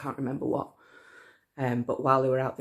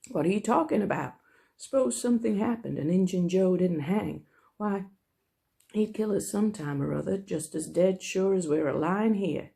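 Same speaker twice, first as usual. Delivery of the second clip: Huck's voice; 4 semitones higher than usual. Acted. Huck voiced, American accent attempt.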